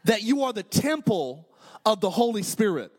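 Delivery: lightly mocked Minnesota accent. Preacher voicing Paul's verse to the congregation, playful Minnesota accent. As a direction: quote it with a hint of Minnesotan.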